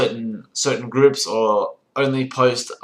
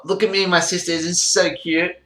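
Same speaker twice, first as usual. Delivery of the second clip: higher, cooing mock gush; gushing family poster; 5 semitones higher than usual. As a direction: gush over a cute relative.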